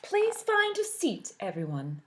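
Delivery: high, slow singsong teacher. Acted. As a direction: coax the class sweetly. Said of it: "said Miss Pear".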